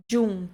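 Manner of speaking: "Giun" said djun, with a d onset; Italian soft g. Shown as a demonstration. Teacher names the second key syllable, careful pronunciation. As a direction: start "Giun" with dj. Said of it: "segunda sílaba importante".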